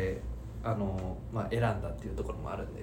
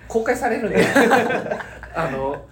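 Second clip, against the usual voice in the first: loud, high, laughing objection; laughing protest; 11 semitones higher, 10 dB louder than usual. Real, not acted. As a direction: protest through laughter, louder and higher. Laughing protest at inside talk.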